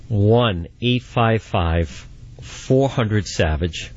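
slow, deliberate number read; phone number read. Acted. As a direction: spell out the number slowly, like a radio host. Host repeats call-in number.

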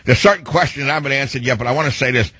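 proud, earnest press-conference statement, mildly put on; a hint of a police chief praising her officers at the podium; Chief Lanier. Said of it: "Chief Lanier, you wanna step forward to the microphone now?".

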